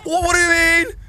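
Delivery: shrieking and swearing in fright; terrified scream. Real, not acted. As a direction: scream in real panic. Monster jump scare.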